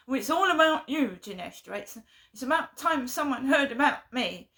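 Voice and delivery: sneering imitation of her mother, half-laughing; mock her mother's whiny self-pity. Vlogger mimics her mother's complaint, sneering.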